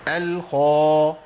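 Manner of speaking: الخا with a thin spread kha, drawn out; slow demo of the thin الخا; wrong thin kha. Shown as a demonstration. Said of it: "ما أقولش الخا".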